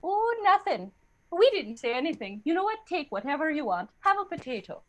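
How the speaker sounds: high, lilting Irish backpedal; mock Irish accent. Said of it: "And the Irish were like".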